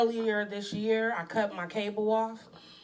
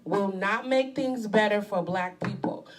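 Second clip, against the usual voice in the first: slow, emphatic read-aloud; deliberate reading; 4 dB louder, slower than usual. Real, not acted. Co-host rereading a post for listeners, slow and deliberate. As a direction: weigh each phrase of the statement.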